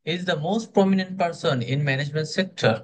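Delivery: slow, rising on most prominent then falling; slow stressed delivery. Shown as a demonstration. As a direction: lean on "prominent", let the line climb and settle. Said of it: "আমি তাকে নিয়ে একটু excited থাকবো".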